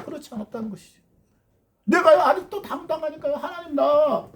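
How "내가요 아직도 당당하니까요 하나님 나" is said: put-on proud old man asking God for work; bold old Caleb. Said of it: "당당하게 얘기를 하고".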